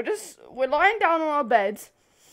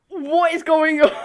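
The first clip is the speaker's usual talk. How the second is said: louder, breaking into a high laugh; laughing retelling; 3 semitones higher, 6 dB louder than usual. Retold or imitated. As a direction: laugh through the quote. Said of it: "literally going".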